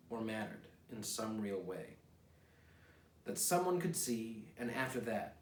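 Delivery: poem reading. Acted. Reads his own poem aloud.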